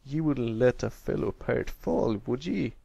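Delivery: lightly voiced pleading pirate king; a hint of a pirate begging for mercy. Pirate king begs the pony above him, mild pleading. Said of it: "pleading for his life".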